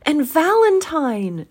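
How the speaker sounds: high, loud, stretched-out exclamation; between laughing and crying. A narrator's reading. Scrooge spots another storybook hero, overexcited. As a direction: call the name out slowly in delight. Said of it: "most extraordinary voice between laughing and crying".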